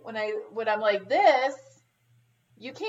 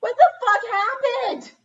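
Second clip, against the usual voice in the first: higher, louder mock indignant yell; hammed-up higher indignation; retold outburst; 12 semitones higher, 6 dB louder than usual. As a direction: play up your own outrage. Retelling her outburst at stylist.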